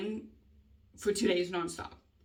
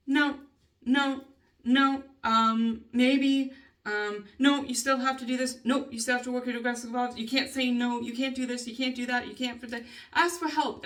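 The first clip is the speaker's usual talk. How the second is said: mimicking the bosses; 3 semitones higher, 4 dB louder than usual. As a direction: play the boss shutting every request down. Voicing the company's refusals.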